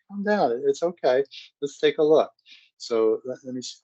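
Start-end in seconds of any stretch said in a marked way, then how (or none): 0.1-2.3 soothing mom. Retold or imitated. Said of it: "You say".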